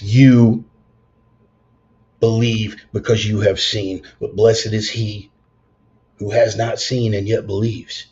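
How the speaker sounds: loud, slow, solemn scripture; solemn Christ quote. Retold or imitated. Quoting Christ's words to Thomas, loud and solemn. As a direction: proclaim it like scripture.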